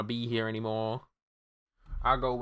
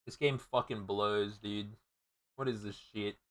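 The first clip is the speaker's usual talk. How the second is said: dejected muttering; 9 dB quieter than usual. Real, not acted. Defeated after losing progress.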